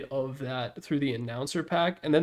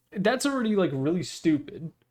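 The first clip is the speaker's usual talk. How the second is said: plain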